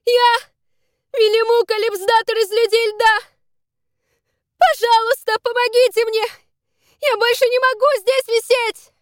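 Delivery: high, loud pleading cry; hanging girl begs for rescue, shouting; desperate shout. Acted. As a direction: beg for help at the top of her voice. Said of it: "крикнула она в ответ, всхлипывая".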